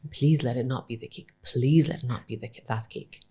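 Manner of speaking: soft, hushed mock pleading; retold whisper. Guy begging under his breath to his friend, retold whisper. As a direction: drop the volume, imitate a private plea. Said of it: "I can hear him whisper to his friend".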